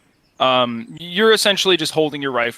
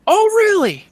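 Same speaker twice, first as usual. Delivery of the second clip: very high, loud retort; disbelieving holler across a distance; shouted challenge; 8 dB louder than usual. Acted. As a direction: yell it back as a challenge. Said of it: "canters forward slightly and goes".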